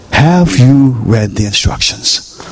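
stretched-out "Have you read the instructions"; slow, deliberate question. Real, not acted. Pastor challenges the congregation on reading, slow and pointed. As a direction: dwell on each word, leaving it to sink in.

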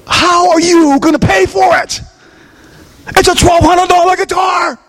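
high, slow, then shouting in disbelief; exasperated outburst. Retold or imitated. Pastor's held-back anger at the homeless man, high exasperated shout. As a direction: let the unsaid anger burst out. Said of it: "And I want to say something again".

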